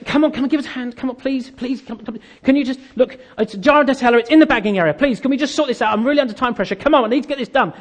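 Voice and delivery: hurried, repeated begging; acted pleading. Stressed customer to checkout assistant, impatiently pleading. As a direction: plead for help under time pressure.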